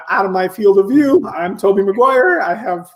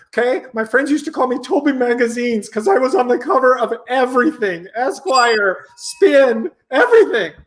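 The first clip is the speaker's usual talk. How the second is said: arrogant celebrity; 4 semitones higher than usual. Acted. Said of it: "I'm Toby Maguire".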